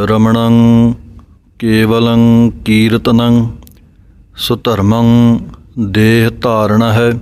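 measured scripture recital, each phrase set apart; slow recitation with pauses. Shown as a demonstration. Teacher reciting the first line for students, slow with pauses. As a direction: recite ਕੇਵਲੰ ਕੀਰਤਨੰ slowly, pausing between phrases. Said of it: "ਪਹਿਲੀ ਪੰਕਤੀ ਸਰਵਣ ਕੀਤੀ".

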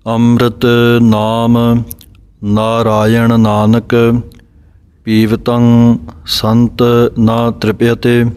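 measured recital, phrase by phrase; slow recitation with pauses. Shown as a demonstration. Teacher reciting the next line for students, slow and measured. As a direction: say ਨਾਰਾਇਣ ਨਾਨਕ slowly, then pause. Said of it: "ਸੋ ਇਸ ਤਰ੍ਹਾਂ ਦੇ ਨਾਲ".

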